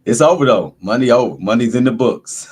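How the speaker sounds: loud, high cheering; excited. Real, not acted. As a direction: celebrate that Monday's done. Cheering Monday's end.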